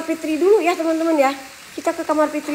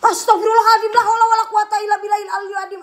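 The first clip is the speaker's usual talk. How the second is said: startled prayer; 4 semitones higher, faster than usual. Real, not acted.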